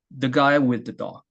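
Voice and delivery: THE GUY WITH THE DOG measured, leaning on GUY; placed rhythm. Shown as a demonstration. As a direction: give "the guy with the dog" a steady beat, GUY stressed and falling. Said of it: "이렇게 하는 게 아니라". (자리를 잡고 "guy"에 힘을 실어 박자 있게)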